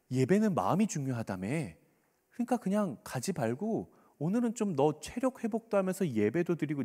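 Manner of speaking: persuasive, casual coaxing, without a real whisper; coaxing tempter. Acted. Satan luring a tired believer from church, coaxingly. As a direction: talk them gently out of it. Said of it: "뭐라고 속삭입니까".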